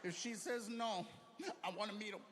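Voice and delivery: high, loud, laughing excitement; excited outburst. Retold or imitated. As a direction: burst out with joy. Excited reply to Emily.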